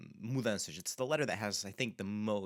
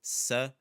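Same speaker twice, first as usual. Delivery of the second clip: sapato split as sa, PA, to; syllable by syllable; 3 semitones higher, 6 dB louder than usual. Shown as a demonstration. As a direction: break sapato into three, loud on PA. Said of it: "focus on the first one".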